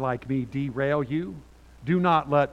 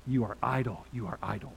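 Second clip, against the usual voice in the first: scornful Pharaoh; 5 semitones lower, 6 dB quieter than usual. Acted. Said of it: "Pharaoh said".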